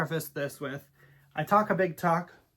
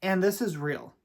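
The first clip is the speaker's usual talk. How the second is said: a raised, firm declaration; pointed retort, a bit louder than the rest; said very loudly; 4 semitones higher than usual. Retold or imitated. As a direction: say it loud so the whole aisle hears. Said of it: "and then I said very loudly".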